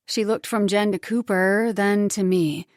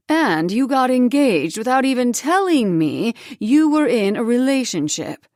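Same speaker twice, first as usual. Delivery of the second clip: rising, louder scolding; angry accusation; 3 dB louder than usual. Acted. Ex-wife confronting Cooper, rising anger. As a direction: build the complaint to a scold.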